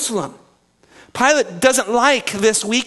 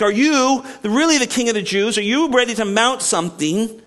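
"you" pressed higher and harder each time; challenging "you", raised; stress on you; 4 semitones higher than usual. Shown as a demonstration. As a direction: lean on "you" as a pointed question. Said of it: "this "you" is emphatic".

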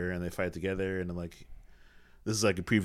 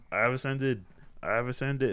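mock grandiose; 5 semitones higher than usual. Mock grand line of Thanos.

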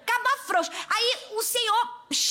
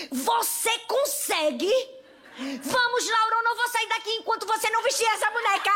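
bossy big sister; 5 semitones higher than usual. Retold or imitated. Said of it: "botou a mão na cintura e fez".

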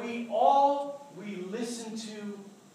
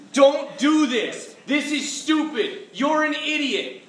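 accusing inner voices; 4 semitones higher, 5 dB louder, slower than usual. Retold or imitated. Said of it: "when those voices are coming into your head".

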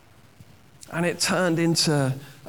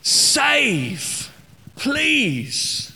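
a lightly voiced plea, higher; a hint of a desperate cry to God; cry for help; 7 semitones higher than usual. Preacher voicing the psalmist's plea, lightly pleading. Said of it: "its original meaning is, is literally".

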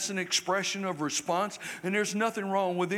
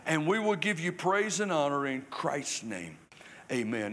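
prayer; 2 semitones lower than usual. Acted. Leads a prayer.

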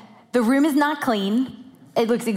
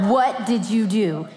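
stern mom; slower than usual. Shown as a demonstration. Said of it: "Say it the way you really say it".

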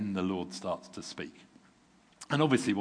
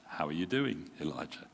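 gentle; 3 semitones lower than usual. Shown as a demonstration. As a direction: ask it like a friend checking in. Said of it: "Or perhaps".

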